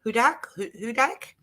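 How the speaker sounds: HUDAK tested haltingly with rising questions; unsure pronunciation. Real, not acted. Host checking Susan's surname with her, hesitant questioning pronunciation. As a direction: stumble into "Hudak", lifting the end to ask. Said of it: "Am I pronouncing that right?".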